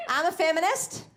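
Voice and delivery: shouted feminist with a rise; proud declaration. Real, not acted. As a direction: proclaim it to the room. Declaring to crowd.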